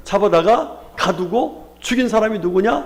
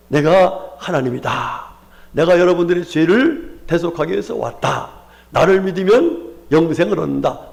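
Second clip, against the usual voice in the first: Jesus proclaiming; 4 semitones lower than usual. Acted. Preacher voices Jesus' claim. (낮고 느리게 선포하는 예수님의 목소리)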